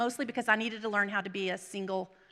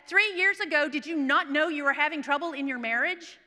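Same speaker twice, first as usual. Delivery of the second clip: raised, accusing question; mock super Pharisee; 4 semitones higher, 5 dB louder than usual. Preacher mimics a judging Pharisee questioning a divorcee, mock reproach. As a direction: scold like a self-righteous church judge, mockingly. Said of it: "the super Pharisee that says".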